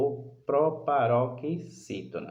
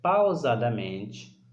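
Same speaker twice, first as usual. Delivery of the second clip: "pausadamente" stretched out slowly and pitched lower; slow, deliberate; 5 semitones lower, slower than usual. Shown as a demonstration. Teacher showing pupils how to sound out a word, slow and deliberate. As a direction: model slow pronunciation on "pausadamente". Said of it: "Pronuncia a palavra".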